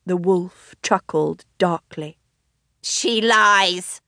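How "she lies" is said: mild cry. Acted. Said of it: "cried the fox".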